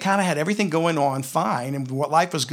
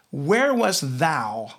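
slow solemn God voice; much slower than usual. Acted. God's words read out slowly.

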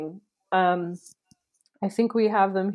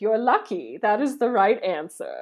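Baba Yaga purring; 3 semitones higher than usual. Acted. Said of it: "Baba Yaga purred".

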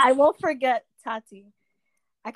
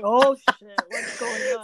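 retold alarm, loud then pitched way up; mock alarm; 3 dB louder, much slower than usual. Friend reacting as Tati pauses the music, mock alarm. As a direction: imitate being suddenly worried by a friend.

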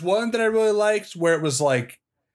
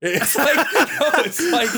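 higher, laughing while talking; 11 semitones higher, 3 dB louder, slower than usual. Real, not acted. Reading a silly wiki disclaimer to his podcast partner, laughing. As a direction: giggle through the words.

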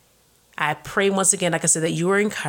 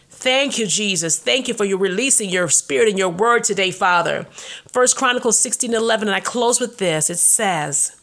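closing prayer; 2 semitones higher than usual. Acted.

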